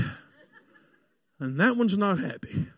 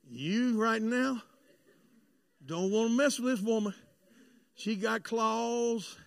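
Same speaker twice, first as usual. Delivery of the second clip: soft, drawn-out caution; slow warning; 6 dB quieter, slower than usual. Retold or imitated. Husband silently warning the nurse about his wife, slow and soft. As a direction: stretch it out as a quiet warning.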